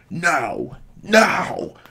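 high, drawn-out mock scream; imitated screaming. Retelling a villain force choking his father, high mock screaming. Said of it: "he's just screaming".

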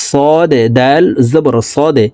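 slow spelling, bouncing the দ in "সদে"; qalqala demonstration. Shown as a demonstration. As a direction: push out the final দ of "সদে" with a little echo. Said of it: "ধাক্কা দিয়ে উচ্চারণ করতে হবে". ("সদে"-র দ ধাক্কা দিয়ে কলকলা উচ্চারণ)

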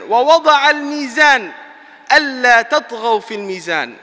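rapid chanted Quran verse; quick recitation. Acted. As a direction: run through the verse swiftly.

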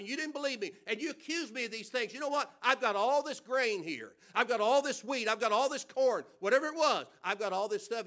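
mock resentful Joseph. Preacher imagining Joseph refusing Egyptians, mild mock grudge. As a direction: play Joseph nursing a grudge, half-mocking. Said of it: "He could have said".

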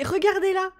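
high, delighted cry; excited squeal. Real, not acted. Streamer to her viewers about the selfie, a high excited squeal. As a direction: squeal at something adorable. Sim poses for a mirror selfie.

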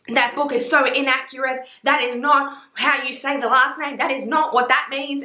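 lightly acted scolding; mock telling-off. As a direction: mimic someone slamming you, without raising volume. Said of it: "she full went off at me".

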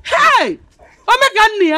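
high, loud wail of mourning; anguished, high-pitched lament; grief wailing. Acted. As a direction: cry out over a dead child. Mourners wail for dead son.

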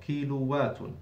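"كيلووات" with a doubled w and -un ending; doubled waw. Shown as a demonstration. Teacher reminds students of the shadda, "كيلووات" with doubled w. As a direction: hold the w in "كيلووات" as a double consonant. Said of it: "to put the shadda on the waw".

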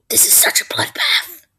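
high whispered awe. Real, not acted. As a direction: whisper in wonder. Marvelling aside.

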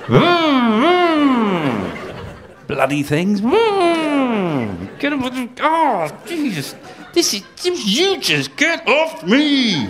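high squeaky yelps at wasps; mock panicked squeals; wasp-stung man. Acts swatting wasps.

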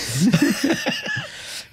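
high burst of laughter. Real, not acted. Reacting to the joke. (riso agudo)

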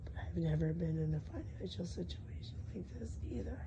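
whispery, voice almost gone; losing voice. Real, not acted. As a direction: push words through a sore throat. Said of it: "never had laryngitis like this".

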